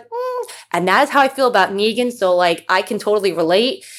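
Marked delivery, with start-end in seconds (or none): 0.0-0.5 high, soft swooning hum; a dreamy, lovestruck mm; imitating sister's swoon. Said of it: "She was like".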